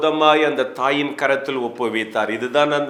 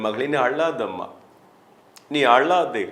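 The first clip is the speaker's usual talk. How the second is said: gentle consoling; 2 semitones lower than usual. Acted. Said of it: "எவ்வளோ ஆறுதலான ஒரு வார்த்தை". (மென்மையான ஆறுதல் குரல்)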